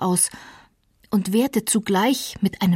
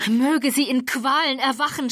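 higher, raging curse in a changed voice; Heathcliff's furious high cry, cursing the dead; violent outcry; 6 semitones higher than usual. A narrator's reading. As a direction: hurl the curse back at her. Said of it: "schrie er mit erschreckender Heftigkeit".

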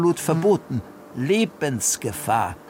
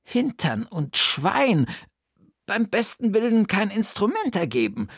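higher puzzled aunt voice; raised character voice, pondering; Bertha's voice; 7 semitones higher than usual. Acted. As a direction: play the clever aunt thinking aloud.

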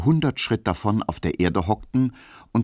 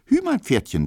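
put-on child's high squeal of joy, much higher and louder; little boy cheering his wooden horse on; jubilant child; 3 dB louder than usual. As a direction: shout it like a kid playing horse.

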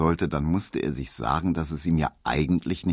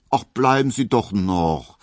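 higher, louder coaxing plea; tender pleading; 5 semitones higher, 5 dB louder than usual. A narrator's reading. Suitor begs Hedwig not to leave, tender pleading. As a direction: plead with her fondly, voice lifted. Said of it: "bat Emil Kubinke und machte zärtliche Augen".

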